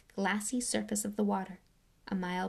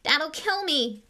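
louder, slow dismay; despairing cry; 8 semitones higher, 5 dB louder, slower than usual. Acted. Ron dreading his father, despairing. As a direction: wail in dread.

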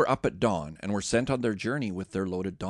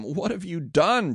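higher, mock-stern demand; 8 semitones higher, 4 dB louder, slower than usual. Joseph confronts his brothers, a mild stern demand. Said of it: "Joseph demanded".

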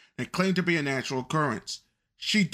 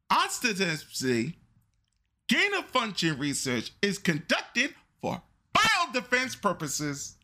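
dictating; 4 semitones higher than usual. Shown as a demonstration. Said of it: "Write it down".

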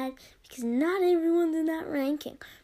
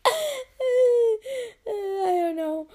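laughing; 8 semitones higher, 6 dB louder, much slower than usual. Real, not acted. Cracking up over dumb review.

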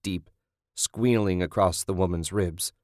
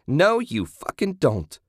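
much higher, slow furious shout; Kathy shouting; 8 semitones higher than usual. A narrator's reading. Kathy stopping Julie, slow furious shout. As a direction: drag each word out in fury. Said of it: "Kathy shouted".

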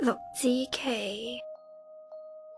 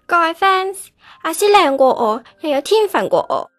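loud, forceful address to a crowd; hurt outburst; 10 semitones higher, 7 dB louder than usual. Acted. Replaced girl telling her fans to support her rival, hurt. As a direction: call out orders, hurt underneath.

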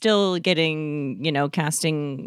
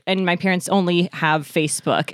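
normal talking voice

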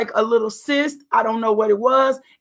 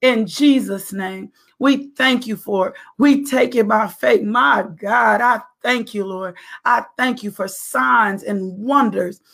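prayer. Acted. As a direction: pray it out with faith. Continues prayer for healing.

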